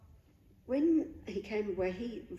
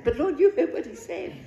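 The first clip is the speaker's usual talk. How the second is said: much higher, louder cry of protest; pleading protest; 9 semitones higher, 8 dB louder, faster than usual. Retold or imitated. Answering the Holy Spirit in protest, high and louder. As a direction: blurt it out high, begging the Lord to listen. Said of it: "I wanted to say".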